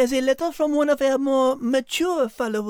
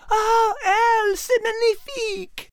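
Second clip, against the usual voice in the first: put-on Liz in a light French accent; a lilting French lady; 7 semitones higher, slower than usual. Liz greets Al in a light French accent. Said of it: "French Liz character voice".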